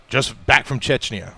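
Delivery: put-on slow, lightly Russian-accented pitch; a hint of Russian accent. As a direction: imitate a Russian vouching for someone, slowly. Voices Russian hospital staff.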